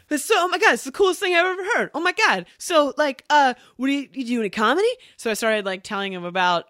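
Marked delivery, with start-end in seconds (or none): 0.1-4.9 high, fast, gushing excitement; excited gushing. Retold or imitated. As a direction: gush like a thrilled fan. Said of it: "He was like".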